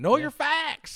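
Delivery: very high put-on Southern US accent. Quoting a woman's tagline the way she says it, southern us accent. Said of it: "she says it in a southern accent".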